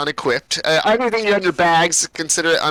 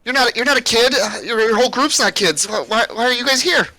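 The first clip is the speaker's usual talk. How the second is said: put-on higher, halting young girl; stammered questions in a raised child's voice; little girl; 4 semitones higher than usual. Unfazed girl questioning strangers in cages, higher child's voice. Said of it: "she goes".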